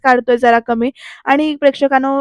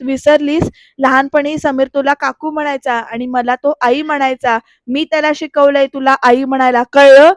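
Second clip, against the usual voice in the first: mild mock scolding, sharply louder on the last word; retold yell; 4 dB louder than usual. Grandmother reminding Sharda who raised the boy, mild retold yell. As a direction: imitate a grandmother's telling-off, punching the final question. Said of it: "नानी ओरडून म्हणते".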